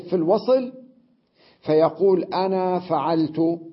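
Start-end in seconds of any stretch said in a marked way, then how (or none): 2.2-3.6 "أنا" said with a long a, slowly; long ana. Shown as a demonstration. Teacher showing students how the alif of "أنا" is pronounced. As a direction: sound the alif of "أنا" in full and slow down. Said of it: "ينطق بالألف".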